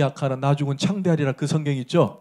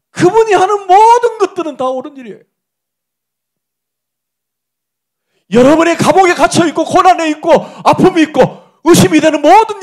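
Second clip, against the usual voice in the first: higher and louder, preaching at full force; fervent preaching; 10 semitones higher, 11 dB louder than usual. Acted. Preacher proclaiming to the congregation, at full fervent force. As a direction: drive the truth home to the congregation.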